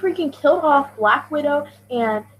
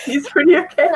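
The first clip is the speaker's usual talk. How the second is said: mock grudging echo; 4 dB louder than usual. Girl mocking her friend's grudging verdict, teasing echo. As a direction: lightly mimic a reluctant boy, louder. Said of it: "echoing the boy's line".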